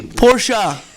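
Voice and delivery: Porsche with a final ah, Porsh-ah; mock Gad's Porsche, ending on ah. Retelling the salesman's pronunciation, Porsche as Porsh-ah. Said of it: "He was telling us it was Porsche".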